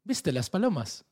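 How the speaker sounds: a light put-on Italian accent, slow; hint of an Italian local asking; mock Italian accent. Italian man asks about pigeons, light mock Italian accent. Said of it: "Este es mi acento italiano".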